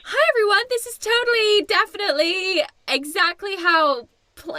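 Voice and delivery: Barbie babbling a cheery excuse to the crowd; mock Barbie. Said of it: "And they're like".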